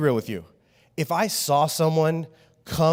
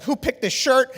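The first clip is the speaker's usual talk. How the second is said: mock annoyed; 8 semitones higher, 3 dB louder than usual. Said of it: "he's all mad".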